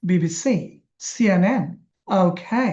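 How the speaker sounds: last letter held in বিবিসি, সিএনএন, ওকে; stress on last letter. Shown as a demonstration. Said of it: "last অক্ষরটা জোর দিতে হয়".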